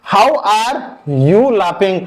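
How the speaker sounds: slow dictation. Shown as a demonstration. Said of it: "तुम कैसे हंस रहे हो?".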